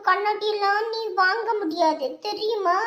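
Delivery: put-on slow, drawn-out childish gloating; cocky boasting. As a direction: show off your chain, stretching out the taunt. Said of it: "என்கிட்ட திமிரா பேசுறான்". (திமிரான, இழுத்துப் பேசும் பீத்தல்)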